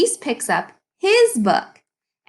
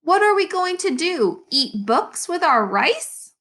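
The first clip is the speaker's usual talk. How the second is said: grumbling; 7 semitones higher than usual. Acted.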